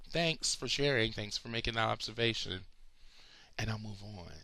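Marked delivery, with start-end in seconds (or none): 0.1-2.6 mock-polite, dripping with sarcasm; sarcastic thanks. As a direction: thank them like it means nothing. Mock thanks to body shamers.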